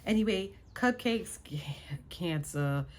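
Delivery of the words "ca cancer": whispered word. Real, not acted. Slips the word in quietly.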